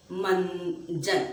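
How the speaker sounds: मंजन said very slowly, the nasal न drawn out; slow nasal demo. Shown as a demonstration. Teacher modelling a word for pupils, slow and nasal. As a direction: stretch मंजन so the nasal hum is heard. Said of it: "आप बोलिए बंदर।".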